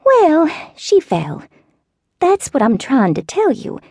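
put-on high, slow, wavering old-lady voice; elderly southern neighbor. A narrator's reading. Neighbor phoning with bad news, slow high old-lady voice.

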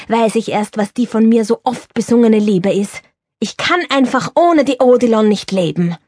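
put-on an old stage star confiding in a friend; Viennese actor Girardi. Girardi declares love. (Girardi ruft aufgeregt seine Freundin Bertha an, lebhaft wienerisch)

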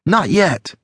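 high-pitched quick reassurance, not yelled; Alex, answering. A narrator's reading. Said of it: "she said".

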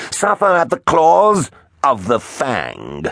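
high, slow triumphant threat; cackling villain. A narrator's reading. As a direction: proclaim doom, stretching the words. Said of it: "Attila cackled".

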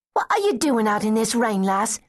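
friendly rough-edged lass asking; street girl. Acted. Older street girl finding a child in rain, lightly voiced.

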